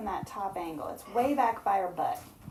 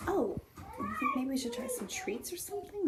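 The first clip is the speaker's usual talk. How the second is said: hushed question; whispering; 9 semitones higher, 5 dB quieter than usual. Real, not acted. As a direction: whisper so the hen stays calm. Whispering near the hen.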